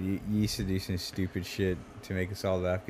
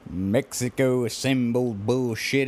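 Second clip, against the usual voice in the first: mock redneck rant; 4 semitones higher, 4 dB louder, slower than usual.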